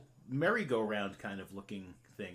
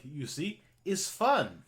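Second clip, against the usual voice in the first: put-on lightly accented, higher on the punch word; Blinsky the toymaker; 3 semitones higher, 5 dB louder, slower than usual. Toymaker showing everyone his toys, eager and lightly accented. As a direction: insist on the fun in broken English. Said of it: "he's like".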